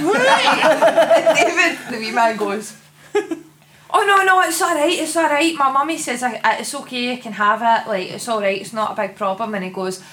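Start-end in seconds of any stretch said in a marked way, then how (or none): 3.1-9.5 put-on lightly raised little boy voice; hint of an eager child; mock child voice. Kid reassuring Santa, voiced high.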